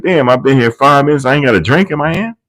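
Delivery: hammed-up impatient man; mock whine. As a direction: rush the complaint. Retelling the complaint again.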